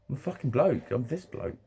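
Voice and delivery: ordinary delivery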